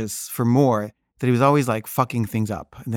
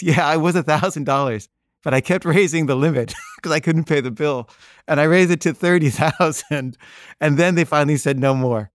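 laughing through it; 2 semitones higher than usual. Retold or imitated. Dad explains while laughing.

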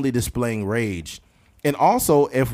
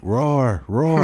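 lightly voiced roar; mock roar. Woman asking for a roar, mock roar. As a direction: say it like a half-hearted roar.

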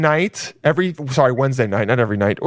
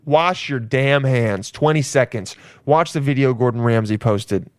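normal talking voice

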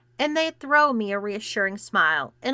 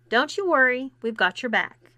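raised voice, calling across; 4 semitones higher than usual. Acted. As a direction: call it out reassuringly. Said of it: "Quinn called out to me".

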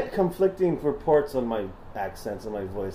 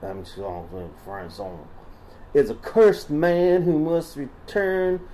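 put-on Southern accent. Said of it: "Should I stop doing the voice?".

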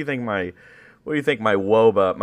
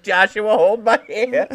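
much higher tender mom voice; mock mom; 10 semitones higher, 4 dB louder, slower than usual. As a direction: coo it like a doting mother.

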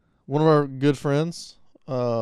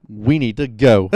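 mock friend; 7 dB louder, slower than usual. Friend's blunt line retold.

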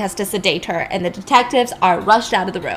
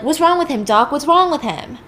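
higher, louder alarmed questions; panicked Chuck; 6 semitones higher, 4 dB louder than usual. Retold or imitated. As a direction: ask in a rush of panic. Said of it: "Chuck is freaking out".

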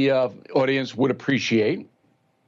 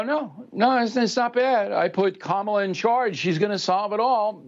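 higher, lightly mocking voice, breezy denial; mock Biden brushing it off; 6 semitones higher than usual. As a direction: shrug it off like a cheerful politician. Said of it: "He'd go".

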